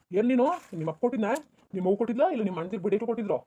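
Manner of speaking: heated accusing questions; angry challenge. Acted. Husband challenging his wife over money, angry.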